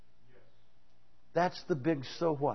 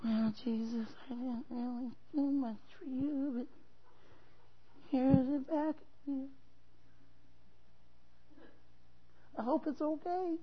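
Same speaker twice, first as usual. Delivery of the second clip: sheepish excuse; 7 semitones higher, 7 dB quieter than usual. Retold or imitated. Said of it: "take out that little hanky and go".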